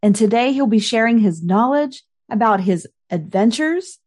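scripted, upbeat host welcome; podcast intro read. Acted. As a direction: introduce the episode to your listeners. Host reads scripted episode opener.

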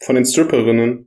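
cold-blocked nose, said again; stuffy nose. Real, not acted. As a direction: repeat through a stuffy nose. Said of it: "Sorry, ich bin ein bisschen erkältet".

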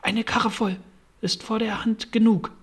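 a hint of a high rabbit voice; rabbit's voice. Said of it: "hörte das Kaninchen sagen".

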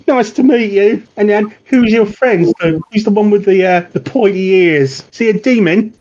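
a hint of a chatty street kid; young boy Eugene. GM as boy Eugene, chatting up the Watch, lightly boyish.

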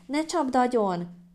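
high, drawn-out squealed plea; child's squeal. A narrator's reading. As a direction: squeal it slowly in a little child's voice. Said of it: "Palkó visítani kezdett". (magas, elnyújtott gyerekvisítás)

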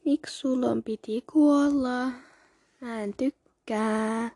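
slow, stretched-out complaint; drawn-out lament. Real, not acted. Reader mourning a book character's death, drawn-out lament. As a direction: draw the words out in protest.

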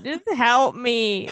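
slow, whiny mock plea; imitating her needy plea. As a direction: drag it out like a needy drunk. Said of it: "You're just so needy in it".

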